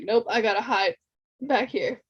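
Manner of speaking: talking with hiccups. Real, not acted. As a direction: speak through the hiccups. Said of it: "I have the hiccups now".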